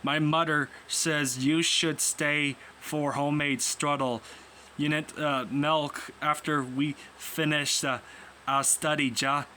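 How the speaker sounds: attempted German accent, slightly hammed; lightly put-on German accent. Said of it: "do my best at this German accent".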